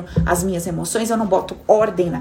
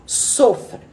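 mock cruel command; 5 semitones lower, much slower than usual.

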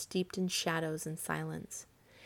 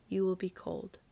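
tender; 4 dB quieter than usual. A narrator's reading. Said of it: "he said tenderly".

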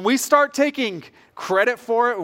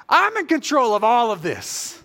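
chuckling as the words come; half-laughing at the joke of it; laughing through it; 4 semitones higher, 3 dB louder than usual. Retold or imitated. Pastor retelling God's reminder, laughing.

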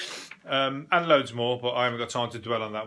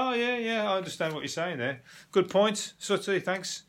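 mock agreeing listener; 6 semitones higher than usual. Pretend listener to silent Sooty.

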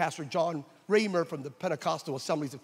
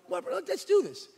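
resolved; 14 semitones higher than usual. Retold or imitated. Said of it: "we decided".

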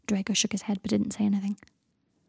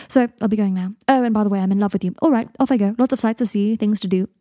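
louder, falsely breezy goodbye; brisk deflection; 5 dB louder than usual. Acted. Draco blurts his love and makes to leave, brisk. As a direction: toss it off to get away fast. Blurted confession while fleeing.

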